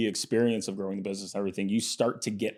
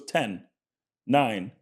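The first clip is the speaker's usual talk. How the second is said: counting down, building louder; playful countdown; 8 semitones higher, 6 dB louder, slower than usual. Retold or imitated. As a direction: tease him with a rising countdown. Roger counts down in story.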